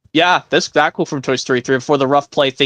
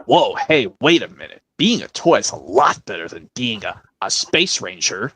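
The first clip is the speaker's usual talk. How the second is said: Woody voice. Acted. Woody encouraging Buzz.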